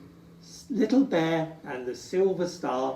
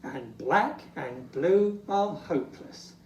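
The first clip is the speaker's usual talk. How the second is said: lightly voiced fretting Santa; a hint of a glum Santa listing suits; Santa in despair. Santa sighing over his suit colours, mildly glum. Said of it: "sighs Santa in despair".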